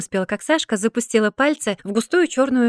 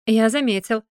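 mocking cat. A narrator's reading. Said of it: "насмешливо мяукнул кот".

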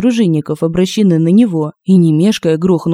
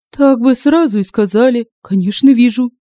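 higher voice, hastily agreeable; compliant townswoman; 6 semitones higher than usual. Acted. Woman giving in at the sword, eagerly agreeable.

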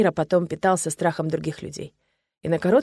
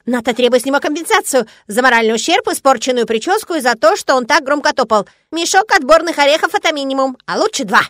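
squeaky critter voice; 6 semitones higher, 6 dB louder than usual. A narrator's reading. Voice of the critter Шишок.

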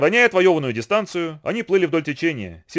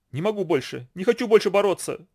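moaning; 6 semitones higher than usual. A narrator's reading. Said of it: "простонала девочка".

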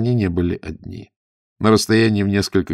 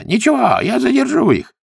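very high, strained-up cry; shout; 4 dB louder than usual. A narrator's reading. The monk offers to hold off pursuers, shouting high. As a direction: call out high over the distance. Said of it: "крикнул брат Зяньян".

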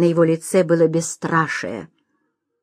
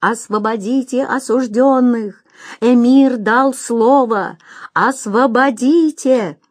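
crowd cries; 4 semitones higher, slower than usual. Acted. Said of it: "Всё громче слышались возгласы".

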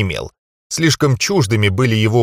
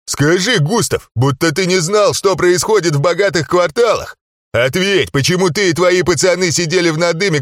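goading challenge; 6 semitones higher than usual. Acted. Hero goads the gnome publicly.

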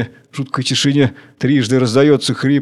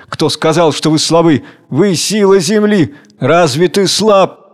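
higher, slowing on the question; passionate exhortation; 4 semitones higher, 3 dB louder than usual. Acted. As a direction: urge them to feel their strength. Tsar exhorts the weak. (страстный призыв)

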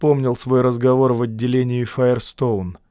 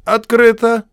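calling out; 10 semitones higher, 6 dB louder than usual. A narrator's reading. Voice calling from behind door.

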